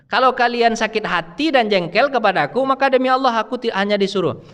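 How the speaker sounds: a hint of a stern angel; angel of death. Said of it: "kata malaikat maut". (malaikat maut memperingatkan, sedikit tinggi)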